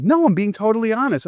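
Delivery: high, put-on innocent denial; mock innocent protest. Friend mimicking a liar's denial, high and innocent. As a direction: play the liar insisting, high.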